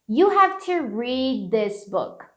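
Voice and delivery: slow model with "read" melting into "this"; "read this" run together, no released d; softened linked D. Shown as a demonstration. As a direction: hold back the d of "read" and join it to "this". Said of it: "ficando mais ou menos assim".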